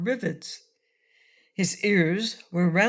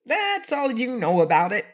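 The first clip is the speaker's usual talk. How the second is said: higher squeaky toy bear voice; 5 semitones higher than usual. A narrator's reading. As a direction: squeak it out like a little stuffed bear. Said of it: "in a squeaky voice".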